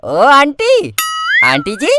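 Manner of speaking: slow, drawn-out teasing call; teasing drawl. Acted. Boy teasing the neighbour aunty, slow mocking call. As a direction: drag out the name to needle her.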